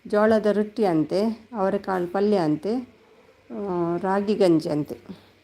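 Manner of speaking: ರಾಗಿ ಗಂಜಿ ಅಂತೆ stretched out very slowly, word by word; slow, drawn-out telling. Shown as a demonstration. Retelling the viewer's menu to Kavitha, slowly drawn out. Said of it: "ನಾನು ಹೇಳ್ತೀನಿ".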